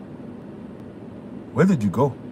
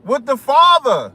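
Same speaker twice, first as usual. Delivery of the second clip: put-on African accent; 6 semitones higher than usual. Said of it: "when I do that African accent".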